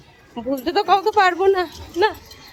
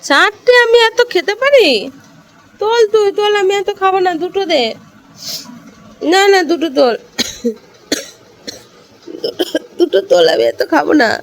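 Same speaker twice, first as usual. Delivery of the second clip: raised, insistent refusal of extra food; loud protest; 5 semitones higher, 6 dB louder than usual. Real, not acted. To her sister serving too many luchis, loud insistent protest. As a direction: push the plate back loudly, half laughing.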